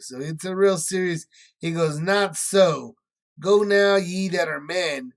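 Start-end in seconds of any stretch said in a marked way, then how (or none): 2.0-5.1 loud, slow kingly dismissal; shouted command. Acted. Pharaoh driving Moses and Aaron from his presence, shouting. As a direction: shout the king's order down at them.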